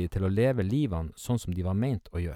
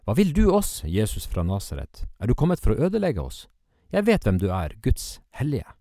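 demon crying out; 2 semitones higher, 4 dB louder than usual. Acted. The unclean spirit cries out at Jesus, a loud cry. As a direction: shout it out at full strength like a possessed man. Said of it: "ropte av all kraft".

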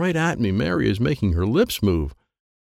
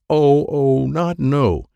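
alarmed realization; 6 semitones higher, 5 dB louder, much slower than usual. A narrator's reading. Realizing kidnapping.

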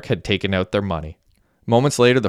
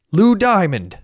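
high-pitched excited call; yelled out; 11 semitones higher, 4 dB louder, slower than usual. A narrator's reading. Messi spotting his favorite actor, yelling out. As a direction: shout the name across a crowded bar. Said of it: "Messi yelled out".

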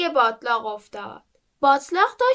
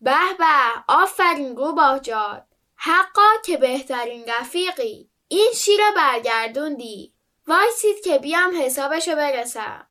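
puffed-up boast. Acted. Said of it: "بادی به قبقب انداخت و گفت".

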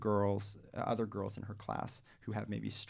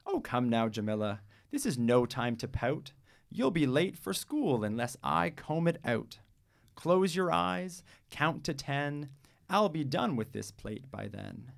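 coaxing mother; 4 semitones higher, 3 dB louder than usual. Acted. Mother coaxing crying Jamila.

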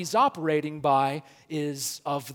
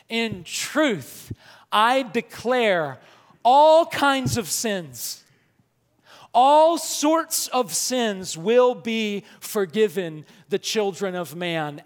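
loud slow proclamation; 3 semitones higher, 5 dB louder, slower than usual. Shown as a demonstration. Preacher proclaiming Jesus' words to the congregation, loud and slow. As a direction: declare it from the pulpit, stretching each phrase. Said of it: "He talks like this to convey authority".

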